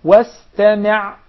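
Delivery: wastami' slow and loud; loud, stretched wastami' for repetition; proper sin. Shown as a demonstration. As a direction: model wastami' with a clear S. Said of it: "pronouncing the sin properly".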